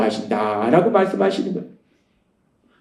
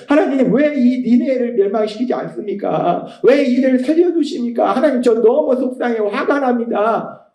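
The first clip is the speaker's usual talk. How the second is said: whining complaint; 3 semitones higher than usual. Retold or imitated. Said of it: "요나가 하나님 앞에 투정 부리니까".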